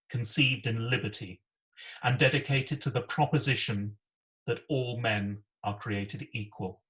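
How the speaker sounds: measured, solemn recitation of the Gettysburg Address; steady, dignified speech delivery; formal speech reading. Acted. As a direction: read it like a solemn oration.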